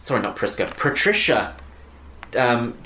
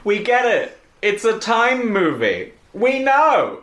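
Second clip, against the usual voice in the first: much higher, louder, laughing through the words; begging the film to stop while laughing; laughing exasperation; 11 semitones higher, 3 dB louder, much slower than usual. Real, not acted.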